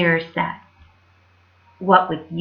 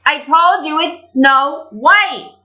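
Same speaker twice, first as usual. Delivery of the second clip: mirror voice; 6 semitones higher, 4 dB louder, slower than usual. Acted. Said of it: "the mirror answered".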